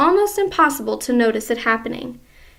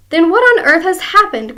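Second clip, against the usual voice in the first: mock cry; 6 semitones higher, 7 dB louder than usual. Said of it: "cried Missus Twit".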